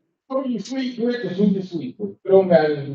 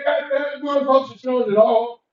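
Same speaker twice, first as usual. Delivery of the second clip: high, fast shocked outburst; astonished; 5 semitones higher, faster than usual. Retold or imitated. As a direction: blurt it out in disbelief. Shocked musician.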